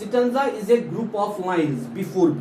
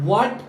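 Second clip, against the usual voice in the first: "What" punched higher as one strong beat; "What" as a raised, stressed beat; stressed syllable; 4 semitones higher than usual. Shown as a demonstration. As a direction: lean hard on "What".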